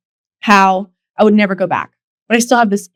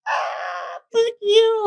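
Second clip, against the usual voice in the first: a pretend outburst, fuck you jumping much higher; shouted retort; 12 semitones higher, 6 dB quieter, much slower than usual. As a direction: fire back at him in your head, full force. Imagined retort to rude host.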